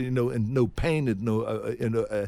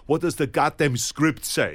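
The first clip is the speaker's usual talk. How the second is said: slow, emphatic exasperation; exasperated; 3 semitones higher, 4 dB louder than usual. Retold or imitated. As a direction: imitate a director losing patience. Retold exasperated director.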